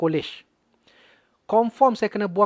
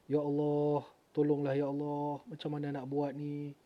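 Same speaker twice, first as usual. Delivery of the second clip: softly surrendering to God; a quiet, broken plea; hushed prayer; 8 dB quieter than usual. Retold or imitated. Retold plea for help.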